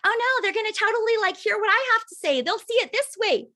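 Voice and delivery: mock worry. Imitating a worried seller's thoughts for the team, mock-panicky. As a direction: play up a nervous seller's fretting. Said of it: "And you think".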